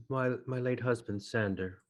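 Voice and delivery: halting, subdued widow; subdued grief. Acted. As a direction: answer hesitantly, with a touch of grief. Widow at grave answers a stranger.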